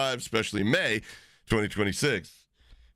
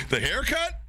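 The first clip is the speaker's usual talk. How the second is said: high, incredulous rising question; retold bafflement; 12 semitones higher than usual. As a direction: act out a puzzled reply, pitched way up. Quotes own baffled reply in story.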